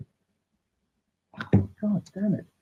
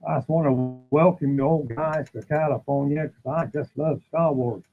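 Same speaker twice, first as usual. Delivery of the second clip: put-on Texan accent. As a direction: play the cheery Texan mayor welcoming the crowd. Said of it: "Why am I doing a Texan accent?".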